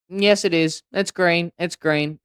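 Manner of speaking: high, loud donkey taunt; obnoxiously insistent donkey voice. Acted. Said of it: "And the donkey goes".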